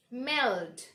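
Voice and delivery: careful falling melt; dark L. Shown as a demonstration. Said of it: "So see the difference".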